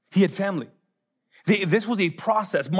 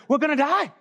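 high mock-panicked whine; freaking out; 7 semitones higher than usual. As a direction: imitate a frightened disciple pleading. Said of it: "they're freaking out".

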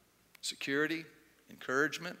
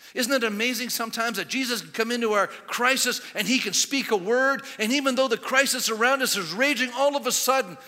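raised, building sermon delivery; preaching; 6 semitones higher, 7 dB louder than usual. Acted. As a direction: preach it with rising force. Preaches at full force.

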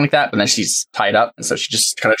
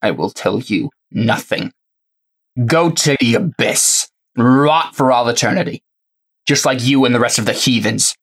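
defiant captive heretic. Acted.

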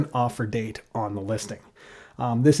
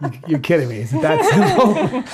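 mock surprise. Mock astonishment at simplicity.

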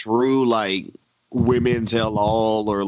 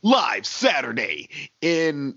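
wrestling announcer; much slower than usual. Pretend.

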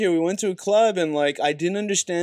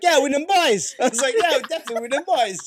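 laughing, raised quote; 7 semitones higher than usual. Retold or imitated.

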